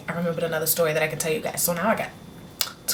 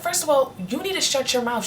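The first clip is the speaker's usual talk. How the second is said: mom scolding; 6 semitones higher than usual. Retold or imitated. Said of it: "My mom was like".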